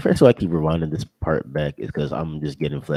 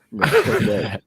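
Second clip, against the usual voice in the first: high outraged squeal; 5 dB louder, slower than usual. Real, not acted. Rejecting the gun.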